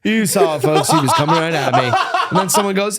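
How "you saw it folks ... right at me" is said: mock defensive comic. Guitar comic defending himself.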